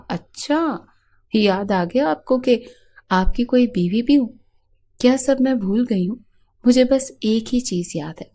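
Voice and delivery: wife's sarcastic rising retort to her neglectful husband; sarcastic outburst. Acted. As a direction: throw his words back at him, stung.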